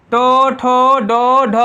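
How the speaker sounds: टो, ठो, डो, ढ with the tongue striking hard on the palate; retroflex consonants. Shown as a demonstration. Teacher showing pupils the tongue hitting the palate, retroflex articulation. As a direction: knock the tongue against the roof for टो, ठो, डो, ढ. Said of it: "एकदम धमाक से तालु तुम टकरा रहा ना".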